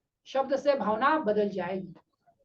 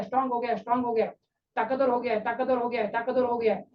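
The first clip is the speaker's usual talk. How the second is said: guided affirmation; faster than usual. Shown as a demonstration. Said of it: "visualise करो".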